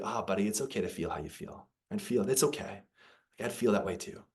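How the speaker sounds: softly spoken fatherly reassurance; gentle, softened retold comfort; tender acceptance. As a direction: quietly let a child know all is well. Father accepting son's feelings.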